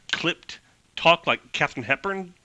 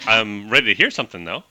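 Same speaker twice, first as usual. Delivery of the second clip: put-on old-timey Northeast accent; 3 semitones lower, 3 dB louder, faster than usual. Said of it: "make her sound like New Yorker".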